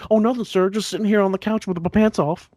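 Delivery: retold nervous kid. Kid answering the girlfriend's father from the couch, mock-innocent. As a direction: play the caught kid, lightly hammed-up. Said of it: "Richard Pryor bit".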